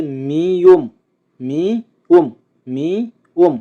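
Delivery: মিউম with মি drawn out before উম; pronunciation drill. Shown as a demonstration. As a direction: model মিউম in two beats. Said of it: "আমরা আবার একসাথে উচ্চারণ করি". (মিউম টেনে ভেঙে উচ্চারণ)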